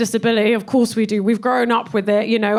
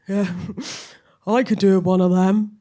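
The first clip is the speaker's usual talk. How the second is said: hint of a smug lad's voice; lightly voiced cocky cyclist; smug bloke; 3 semitones lower than usual. Cyclist mocking mobility scooter.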